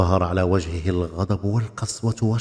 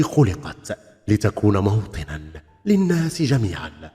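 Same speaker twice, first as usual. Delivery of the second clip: deep piercing voice. Acted. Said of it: "في صوت عميق نافذ". (صوت عميق نافذ بنبرة مهيبة)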